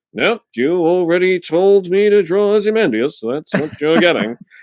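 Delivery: bone-dry British delivery, very high-pitched. Acting out a man's reply, without missing a beat, about what to draw, imitating really dry British wit. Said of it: "really dry British wit".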